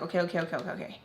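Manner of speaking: low, soft rush of self-talk; anxious thinking aloud. Retold or imitated. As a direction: talk yourself down under your voice. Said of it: "I'm, like, trying to think".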